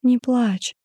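gentle plea not to cry; tender, lightly voiced reassurance; soothing. A narrator's reading. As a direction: comfort a tearful friend. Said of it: "попыталась её успокоить".

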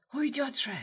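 a mild note of outrage at letting her go; indignant protest. A narrator's reading. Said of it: "возмутилась тень". (тихое возмущение, голос выше)

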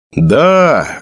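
a sudden loud yell; loud shout. Acted. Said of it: "громко выкрикнул Сэджин". (громкий выкрик)

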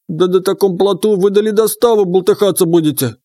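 high croaky frog spirit; teasing croaking frog voice; frog creature voice. Acted.

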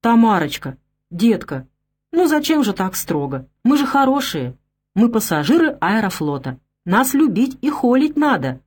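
put-on high, squeaky drunken pleading; squeaky toy voice. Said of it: "пропищал Плесун". (писклявый голос, как резиновая игрушка)

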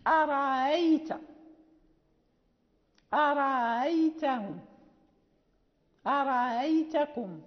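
"أرأيت" with the second hamza softened between hamza and alif; eased hamza. Shown as a demonstration. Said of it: "فيقرأها قالون بتسهيل الهمزة".

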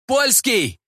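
high-pitched outraged correction; indignant cry. A narrator's reading. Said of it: "крикнул он".

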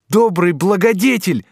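high, loud outburst of gratitude; a ringing high exclamation; grateful cry. A narrator's reading. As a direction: cry out to his benefactor. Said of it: "закричал Асканио".

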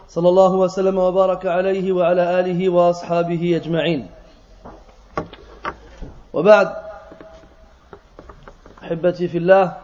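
brisk, even-toned Arabic invocation; formal sermon opening. Acted. Speaker greets brothers in the mosque after prayer, formal sermon opening. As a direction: recite the formal Arabic opening at a quick, level pace.

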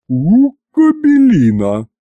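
loud, slow, gruff scolding in a put-on voice; a big woman's gruff curse; angry growl. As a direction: growl it at the cowering man.

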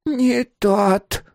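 very slow, high, lost murmur rising; old woman led away, bewildered. Acted. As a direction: repeat it confused and defeated. Miss Mary led away.

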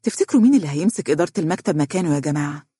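quick, mildly curious question; interested. Acted. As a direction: ask quickly with a touch of interest. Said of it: "قالت نورة باهتمام". (باهتمام)

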